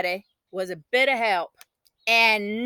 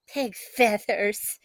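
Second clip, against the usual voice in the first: dismissive; 5 dB quieter, much slower than usual. A narrator's reading. Sister dismissive.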